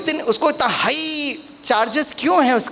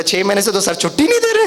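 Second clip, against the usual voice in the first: laughing while answering; faster than usual. Retold or imitated. Young man answers, laughing.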